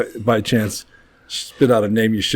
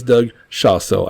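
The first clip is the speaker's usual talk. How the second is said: slow, careful name introduction; much slower than usual. Real, not acted. Host introducing today's guest by name, slow and careful. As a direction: take the name slowly to get it right. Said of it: "I gotta say it so slow".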